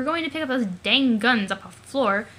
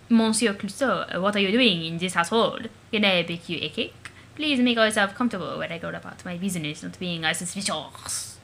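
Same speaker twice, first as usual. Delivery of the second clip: playful dad voice; 4 semitones lower than usual. Acted. Dad greeting disguised daughter as Clouseau.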